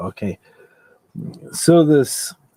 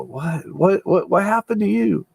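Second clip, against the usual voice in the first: mock shocked question; 6 semitones higher than usual. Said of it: "people just go".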